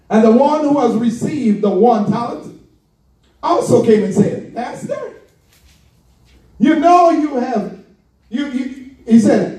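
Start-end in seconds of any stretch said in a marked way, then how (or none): 4.5-8.9 grudging servant. Retold or imitated. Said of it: "He ain't even talking right about it".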